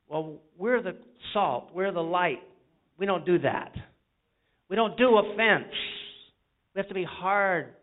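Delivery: rising from firm to loud, punching each line; building preacher shout. Real, not acted. Preacher rallying the congregation, building to a shout. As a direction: preach it harder and harder.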